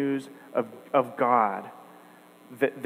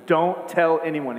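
slow, firm and a little louder; stern command; 3 semitones higher, 4 dB louder than usual. Retold or imitated. Preacher voicing Jesus' strict order to the healed man, sternly. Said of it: "He says it sternly".

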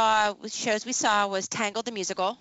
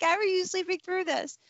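incredulous; 11 semitones higher than usual. Retold or imitated.

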